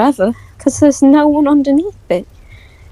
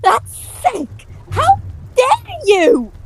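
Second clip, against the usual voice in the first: indignant outrage; 9 semitones higher than usual. Acted. Accused of something, furious outburst.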